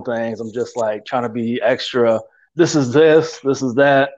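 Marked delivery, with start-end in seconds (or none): 2.6-4.1 rigid planner voice. Retold or imitated. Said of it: "very rigid".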